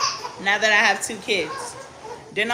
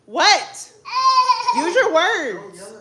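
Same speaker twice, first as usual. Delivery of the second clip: calling out; 10 semitones higher, 5 dB louder, much slower than usual. Real, not acted. Mother calling out to child.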